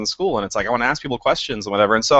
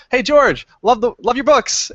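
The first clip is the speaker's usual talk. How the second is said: eager fan; 13 semitones higher, 5 dB louder than usual. Retold or imitated. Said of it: "and I go".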